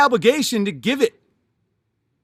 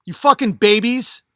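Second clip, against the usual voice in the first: louder, higher telling-off; angry retort; 4 semitones higher, 4 dB louder than usual. Retold or imitated. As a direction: chew out the boomer, heated. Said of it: "I'm like".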